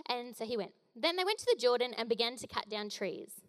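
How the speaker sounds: ordinary talk, nothing marked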